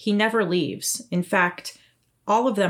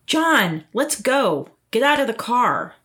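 impatient; 4 semitones higher, 4 dB louder than usual. Acted. Wife impatient at car.

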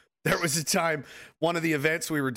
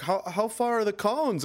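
laughing naive question; 6 semitones higher, slower than usual. Retold or imitated. Mock naive question to staff.

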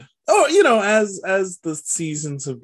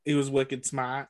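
mock Boston accent, softer; quiet joking imitation of a Boston accent; 6 dB quieter than usual. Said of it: "like, a mild Boston accent".

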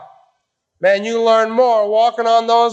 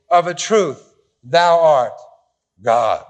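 deliberate misquote; 4 semitones lower, slower than usual. Shown as a demonstration. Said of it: "Oh, sorry. Must have been the Trinitarian translation".

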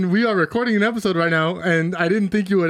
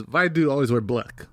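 lightly faked Russian accent; 4 semitones lower than usual. Shown as a demonstration. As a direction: lower mock Russian accent. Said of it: "To get into the accent?".

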